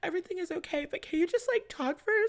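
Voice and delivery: acting out a Kardashian call as she starts to cry, pitched high; mock Kim Kardashian. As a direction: imitate a wobbly voice asking someone to just talk. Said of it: "She's like".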